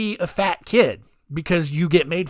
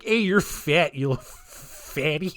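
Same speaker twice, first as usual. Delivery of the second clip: put-on Canadian accent; slower than usual. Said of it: "I don't know what Canadian voice that is".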